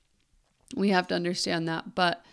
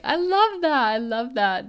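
excited; 6 semitones higher, 9 dB louder than usual. Retold or imitated. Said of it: "And I'm just like".

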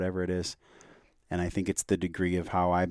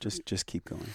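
little inner voice; 9 dB quieter than usual. Retold or imitated. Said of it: "heard this little voice".

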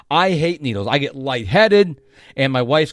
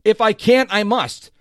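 said with emotion; 5 semitones higher than usual. Shown as a demonstration. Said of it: "say it to yourself several times out loud with emotion".

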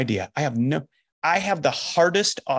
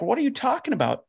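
startled disbelief; 10 semitones higher, faster than usual. Retold or imitated. Retold surprise at John's claim.

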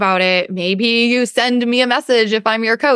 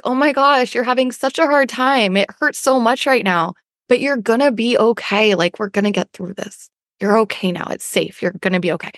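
kindly self-soothing. Acted. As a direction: comfort yourself like a hurt pet. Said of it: "as kindly as we talk to our pets".

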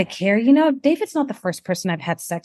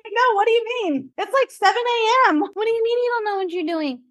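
retold disbelief, much higher pitched; incredulous protest; 12 semitones higher than usual. Patient questioning a technician who doesn't know the procedure, acted incredulous. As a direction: protest in high-pitched, mock-panicked disbelief.

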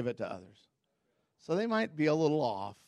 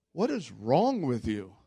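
incredulous; 2 semitones lower, slower than usual. Retold or imitated. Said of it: "I'm like".

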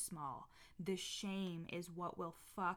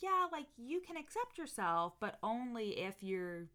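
mocking past self; 3 dB louder than usual. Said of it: "I used to be like".

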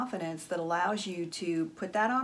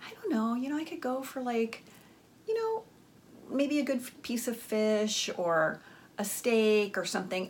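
high, dithering woman; 3 semitones higher than usual. Retold or imitated. Woman vaguely hinting at dinner.

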